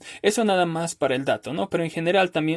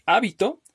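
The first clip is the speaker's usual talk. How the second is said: hábito with a high stressed HÁ; stress on first syllable; 6 semitones higher than usual. Shown as a demonstration. Teacher showing meaning changes with stress, hábito stressed on HÁ. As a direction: hit HÁ at the start of hábito. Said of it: "cómo vaya a pronunciarlo".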